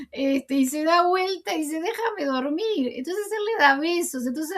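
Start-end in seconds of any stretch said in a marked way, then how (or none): 1.8-2.9 higher, drawn-out plea to be left alone; lightly acted whiny refusal; mock protest. Wife to husband who keeps kissing her, higher slow mock protest.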